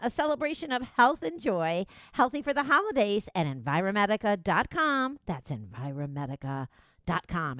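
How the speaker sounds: upbeat radio ad read; live ad read. Acted. Radio host reading the sponsor ad, upbeat. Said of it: "that's what they call a live read".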